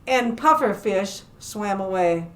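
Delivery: lively, animated storytelling; story narration for children. Acted. Librarian telling children about a shark among fish, animated storytelling. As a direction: tell it to little listeners with playful emphasis.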